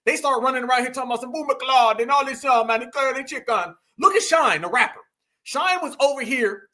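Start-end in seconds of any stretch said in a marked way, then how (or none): 1.3-3.8 lightly mocked Jamaican patois; imitated Jamaican accent. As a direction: mimic a found-again Jamaican accent, lightly. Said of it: "they find these accents".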